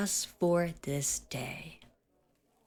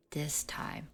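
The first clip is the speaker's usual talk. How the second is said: fading whisper; 2 semitones lower, 8 dB quieter than usual. Acted. Captor admitting defeat to Eiro, fading whisper. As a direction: drop to a soft whisper.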